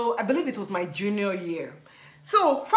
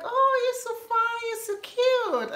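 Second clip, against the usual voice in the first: imitating American guys; 13 semitones higher than usual. College guys complimenting her, very high and cooing. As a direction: coo it like a smitten classmate. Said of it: "So then it's like".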